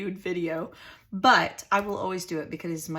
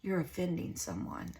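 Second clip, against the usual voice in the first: a whispered shh, then a much softer scolding; mocking hush; 5 dB quieter than usual. The world hushing believers, imitated in a soft whisper. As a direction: imitate someone hushing you for offending. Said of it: "are we being told".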